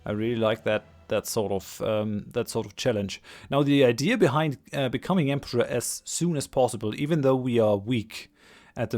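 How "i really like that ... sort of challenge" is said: stuffy nose. Real, not acted. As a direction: voice thick with a cold. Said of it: "I'm currently fighting a cold".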